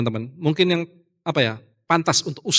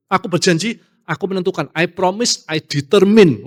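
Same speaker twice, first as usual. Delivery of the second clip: stubborn vow; 3 semitones higher than usual. Retold or imitated. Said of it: "betul-betul kekeh gitu".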